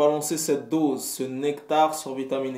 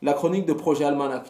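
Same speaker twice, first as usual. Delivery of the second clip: pestering fan voice; 4 semitones higher, faster than usual. Retold or imitated. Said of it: "des gens qui vont m'envoyer".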